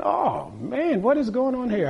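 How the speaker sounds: a mild mock double take; retold surprise. Preacher retelling his shock at the chanting party, startled.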